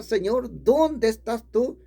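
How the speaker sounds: high, drawn-out call, no real shouting; mildly re-enacted cry to the Lord; retold repeated shout. Preacher retells calling to God the next day, a mild high cry. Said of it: "Le volví a gritar".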